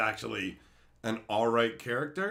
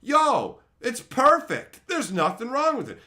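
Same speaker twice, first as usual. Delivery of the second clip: dopey monkey; 9 semitones higher, 8 dB louder than usual. Pretend. Paint-huffing monkey approves the story, loud and dopey. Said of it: "was like".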